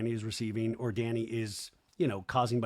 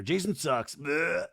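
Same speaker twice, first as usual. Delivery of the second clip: blunt jab capped with a fake belch; mock belch added; 3 semitones higher, slower than usual. Shown as a demonstration. Podcaster adding the missing belch to Kristen's line, mock belch. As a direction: finish on a pretend burp noise. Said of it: "I feel like there should be a belch there".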